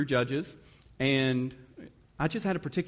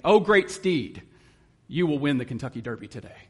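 grandly raised, louder, then rushed mock flattery; mock grand praise; 5 dB louder than usual. Preacher mocking a donkey as a Derby winner, ironic grandeur. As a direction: hail a donkey like a champion racehorse, tongue in cheek. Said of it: "almost like seeing a donkey in the field".

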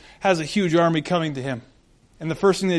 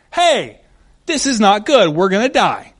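loud alarmed blurt, pitched up; panicked servant; 3 semitones higher, 6 dB louder than usual. Retold or imitated. Servant panics to Elisha, loud and alarmed. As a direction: servant panicking at the enemy army.

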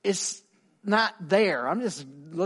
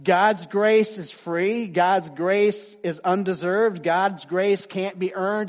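slow proclamation; 4 dB louder, slower than usual. Acted. Preacher proclaiming grace.

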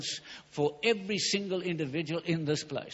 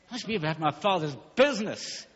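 firm Jesus voice. Acted. Young Jesus answering his worried parents, firmly declared. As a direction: declare it with rising conviction.

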